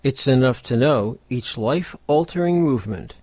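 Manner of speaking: measured poem recital with pauses between phrases; poetry reading. Acted. Host reading the poem Topaz to podcast listeners, measured poetry reading. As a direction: recite it line by line, letting each image settle.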